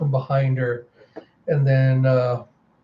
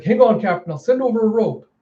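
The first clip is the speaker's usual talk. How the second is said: high, projected rescue shout; urgent call; 8 semitones higher than usual. Acted. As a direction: call across the water to reassure. Calling to captain in the water.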